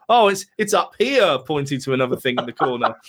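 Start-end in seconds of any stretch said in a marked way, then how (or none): 0.1-1.4 higher, hammy discovery; mock searcher. Host mimics the film's cast finding the cat, higher and hammy. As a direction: point it out like a bad actor. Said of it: "and they go".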